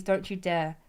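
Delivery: short Glaswegian demo; Glasgow accent. Shown as a demonstration. Showing what Glasgow accent she can manage, Glaswegian. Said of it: "Glasgow accent is".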